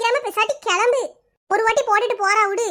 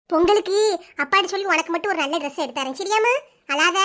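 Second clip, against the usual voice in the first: put-on lower, gentle mother consoling her crying girl; soothing mother; 4 semitones lower than usual. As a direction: hush her tears like a mum would. Mother comforting crying daughter.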